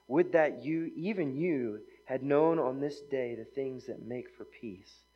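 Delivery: slow, solemn reading of the lament; grave scripture lament. Acted. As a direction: mourn over the city, slowly.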